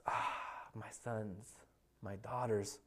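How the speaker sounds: very soft, low, sighing fondness; tender adoration. Acted. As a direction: breathe it like a doting father, with pauses. God dotes on his children.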